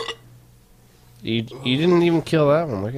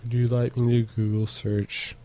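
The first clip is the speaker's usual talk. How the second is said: lightly voiced phone assistant; a hint of a polite robot; Siri voice; 2 semitones lower, 7 dB quieter than usual. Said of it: "I talk in a robot voice".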